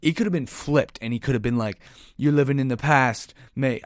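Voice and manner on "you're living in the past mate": put-on a weak stab at an Irish accent, a little louder; mock Irish trash talk, only half committed; bad Irish accent. Imitating Conor McGregor trash talking in a failed Irish accent. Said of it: "I can't do an Irish accent".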